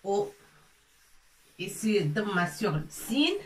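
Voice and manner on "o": "o" sung out high and held; vowel demo. Shown as a demonstration. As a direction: show the sound "o" clearly, pitched up. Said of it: "ça se prononce". ("o" chanté haut, en démonstration)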